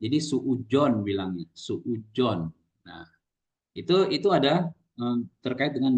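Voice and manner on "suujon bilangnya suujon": "suujon" with a J sound in place of z; Sundanese J for zai. Shown as a demonstration. Teacher imitating Sundanese speakers, "suujon" with J for z. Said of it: "semuanya J gitu ya".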